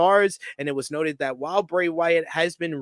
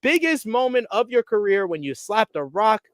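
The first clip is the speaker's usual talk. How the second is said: Rock promo impression; 4 semitones higher than usual. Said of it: "he says".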